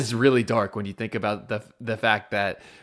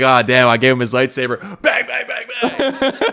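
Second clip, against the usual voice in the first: laughing mock blasting; 4 dB louder than usual. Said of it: "He's like".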